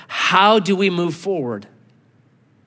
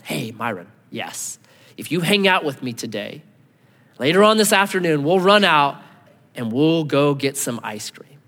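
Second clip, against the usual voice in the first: kind promise. Retold or imitated. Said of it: "what if I said this".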